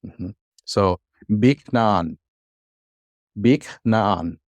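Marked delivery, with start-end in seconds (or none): 1.4-2.2 "beak naan" said slowly in two separate syllables; syllable-by-syllable pronunciation. Shown as a demonstration. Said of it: "just changing the pronunciation". 3.4-4.4 "Beak naan" with a clear break after the k; syllable-by-syllable pronunciation. Shown as a demonstration. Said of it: "just changing the pronunciation".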